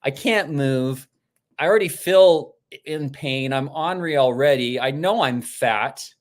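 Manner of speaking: mildly indignant retold outburst; mock furious. Patient stuck on the table, offended by the acupuncturist, mock furious. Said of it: "Vince was furious. He's like".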